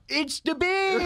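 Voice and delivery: high-pitched mock American line; bad American accent. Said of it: "as an American".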